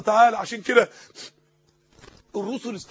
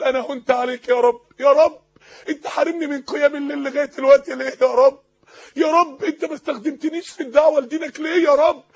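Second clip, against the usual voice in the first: tearful plea; 2 semitones higher, 4 dB louder than usual. Acted. Voicing a tearful prayer.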